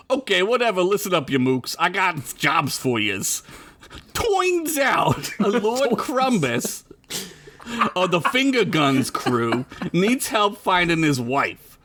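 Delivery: hammed-up Italian wiseguy accent; brief the crew in a broad Italian accent. Joey handing out jobs to mooks, Italian accent. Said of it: "I gotta do an Italian accent now".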